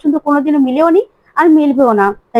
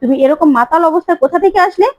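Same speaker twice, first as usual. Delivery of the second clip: a mock angry demand, rising on the repeat; narrating a mother's sharp anger; lightly acted furious mother; angry scolding; 3 semitones higher than usual. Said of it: "প্রিয়ঙ্কদা রেগে যায় আর বলে".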